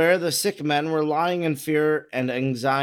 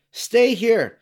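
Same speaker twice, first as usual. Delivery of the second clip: firm raised command; 6 semitones higher, 4 dB louder than usual. A narrator's reading. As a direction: call it out with authority. Jesus orders the Pharisees.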